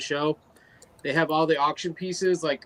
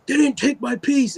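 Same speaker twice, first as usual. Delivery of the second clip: upset friend; 10 semitones higher, 4 dB louder than usual. Retold or imitated. Friend upset, quote retold.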